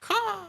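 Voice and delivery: high imitated bird caw; quick high-pitched caw. Imitates a bird's cry.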